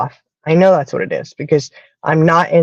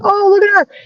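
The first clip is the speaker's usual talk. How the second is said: much higher, delighted coo at the dog; cooing stranger; 3 dB louder than usual. Retold or imitated. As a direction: mimic the lady gushing over the puppy. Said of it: "She goes".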